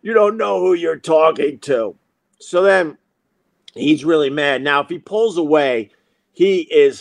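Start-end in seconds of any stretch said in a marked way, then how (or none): 0.0-1.9 threat restated near normal pitch; mock threat. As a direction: repeat the empty warning in a more level voice. Same threat repeated in lower voice.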